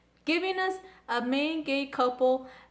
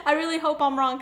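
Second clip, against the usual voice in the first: laughing through the words, a bit louder; nervous giggle as you say it; talking through a laugh; 3 semitones higher, 4 dB louder, faster than usual. Real, not acted. Laughing at own theory.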